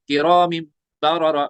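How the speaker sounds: slow किरामिन, final M hummed into बररा; iqlab with ghunna. Shown as a demonstration. Teacher building the word, किरामिन hummed slowly. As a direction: draw out the M joining किरामिन and बररा. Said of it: "वहां पे इकलाब हुआ है".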